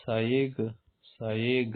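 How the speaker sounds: سائق as "sayeg", hard g ending; colloquial variant pronunciation. Shown as a demonstration. Teacher quoting some speakers, سائق ending in g, "sayeg". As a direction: swap the final q of سائق for g. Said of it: "اس طرح".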